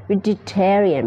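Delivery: "vegetarian" slowly, with a clear "jet" inside; demonstrated pronunciation. Shown as a demonstration. Teacher saying "like this" to learners, slow demonstrated pronunciation. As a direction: model "vegetarian" syllable by syllable. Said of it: "แบบนี้".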